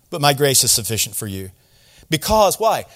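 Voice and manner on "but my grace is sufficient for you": low, tender reply; gentle reassurance. Acted. God telling Paul it won't be easy, gently reassuring. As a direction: answer softly and kindly, voice dropped. God answers Paul's imagined question.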